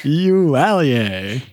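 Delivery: slow, stretched Eau Allier; slow drawn-out sign-off. Shown as a demonstration. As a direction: draw the sign-off out slowly. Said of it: "That's gonna be our new sign-off".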